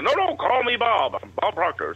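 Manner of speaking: put-on high Canadian-accented mentor voice, insisting warmly; hammed-up Canadian mentor impression; Bob Proctor Canadian voice. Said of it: "he's saying the Bob Proctor voice".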